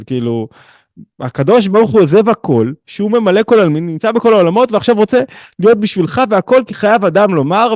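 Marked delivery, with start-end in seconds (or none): 1.2-7.8 higher-pitched, swelling fervor, slowing at the close; impassioned teaching. Real, not acted. Teacher applies the Messi example to God, impassioned. Teacher driving home the point.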